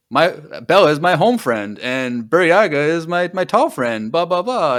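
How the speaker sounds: dog talking broken English. Retold or imitated. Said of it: "talking like a dog, like, broken English".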